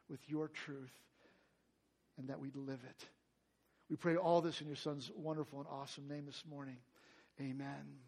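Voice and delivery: earnest spoken prayer, steady and sincere. Acted. Pastor opening the study in prayer, earnest. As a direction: pray it humbly over the congregation.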